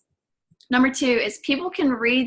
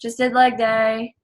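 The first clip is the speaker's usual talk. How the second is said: slow, flat-toned mock monotone. Shown as a demonstration. Coach mocking a dull story post, monotone. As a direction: say it like you couldn't care less. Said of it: "speaking monotone".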